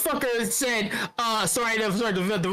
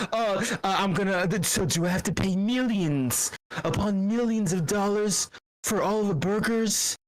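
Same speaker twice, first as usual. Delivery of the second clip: terrible Trump impression. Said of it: "This is a terrible Trump, impression".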